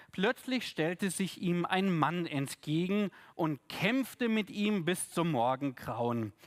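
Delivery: measured scripture reading, carefully paced; reading scripture aloud to the congregation; Bible reading. Acted. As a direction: read the passage like a lector. Reads the Bible text aloud.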